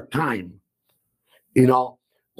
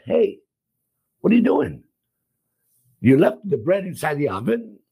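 sharp, higher call-out that settles by the end; raised scolding; 4 semitones higher than usual. Retold or imitated. Restaurant owner scolding a worker over burnt bread, raised voice. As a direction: catch him out, voice raised at first. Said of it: "I don't speak very soft".

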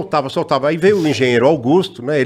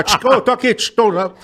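over walkie talkie; 5 semitones higher than usual. Retold or imitated. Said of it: "E o cara".

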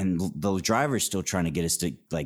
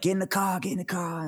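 insistent; 12 semitones higher, faster than usual. Retold or imitated. Driver insisting.

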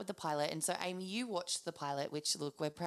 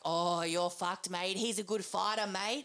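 hyping up a fight; 3 semitones higher, 4 dB louder than usual. Retold or imitated. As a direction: egg him on, teasing and gleeful. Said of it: "G'ing up Rivers like".

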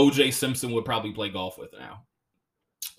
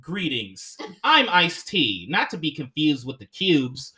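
mock proper Ice-T. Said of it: "if he came on, he's like".

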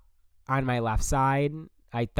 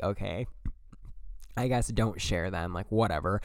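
softer resigned aside to yourself; resigned mutter; 4 semitones lower, 8 dB quieter than usual. Retold or imitated. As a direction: let it go under your breath. Classmate pulls her notes away.

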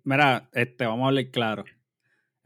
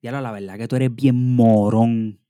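deadpan insult; 3 semitones lower, 5 dB louder than usual. Retold or imitated. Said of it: "que a mí me digan".

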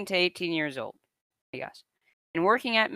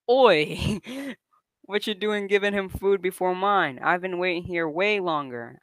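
mock Scouse shout; 2 semitones higher, 3 dB louder than usual. Angry customer to a McDonald's worker, mock Scouse shouting. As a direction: put on a light Scouse complaint. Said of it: "shouts in a thick Scouse accent".

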